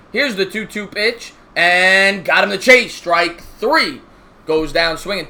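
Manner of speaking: measured baseball broadcaster call; play-by-play announcer. Acted.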